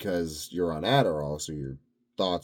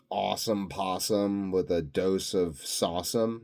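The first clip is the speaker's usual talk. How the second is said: goofy catchphrase. Real, not acted. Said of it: "That's why I'm saying things like".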